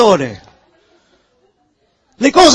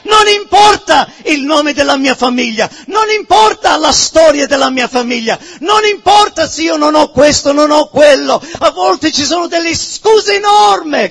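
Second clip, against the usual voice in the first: fervent preaching; 4 semitones higher than usual. Real, not acted. Preacher to congregation, pressing the point in fervent preaching. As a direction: drive the list home from the pulpit. Preacher builds to full force.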